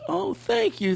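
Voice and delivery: very high, soft and awed thanks; imitating the kid's heartfelt thanks; heartfelt realization. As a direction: realize it and mean it. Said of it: "And then he realized".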